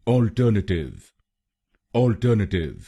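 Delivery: अल्टरनेटिव with the weight on the ter syllable; stress second syllable. Shown as a demonstration. Teacher shows where the stress falls. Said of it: "दूसरे शब्दांश पर यानी टीईआर पर जोर डालना है".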